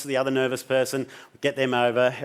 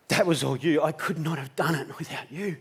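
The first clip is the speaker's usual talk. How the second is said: softer grateful voice; soft into the ear; 7 dB quieter than usual. Retold or imitated. Jan hugging him, saying it softly into his ear. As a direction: murmur thanks into his ear. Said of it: "she says into my ear".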